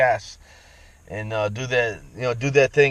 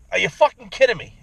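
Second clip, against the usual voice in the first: incredulous outburst; 7 semitones higher than usual. Retold or imitated. A voter reacting to a poll question in higher-pitched incredulous disbelief. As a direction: snap back in mock outrage at a silly question. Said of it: "You know, like".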